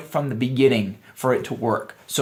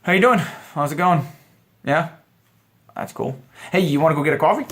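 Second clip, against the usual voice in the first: easy, relaxed pickup line; casual and calm, no pressure; 3 semitones higher than usual. Shown as a demonstration. Coach demoing the relaxed way to ask her out. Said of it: "But if you're relaxed and you're like".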